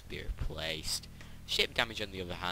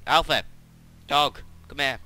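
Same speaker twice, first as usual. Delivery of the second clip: loud high call across the house; calling the dog; 7 semitones higher, 10 dB louder than usual. Real, not acted. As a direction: shout for the dog to come.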